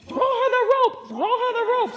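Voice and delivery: high, loud urgent call. Retold or imitated. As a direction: shout the order to the crew. Guide calling for the rope.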